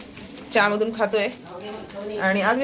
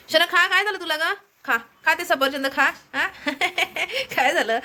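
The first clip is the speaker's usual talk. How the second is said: coaxing pet talk; 8 semitones higher than usual. Real, not acted. Vlogger coaxing her pet bird Anamika to eat, high coaxing pet talk. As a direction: sweet-talk the parrot into eating.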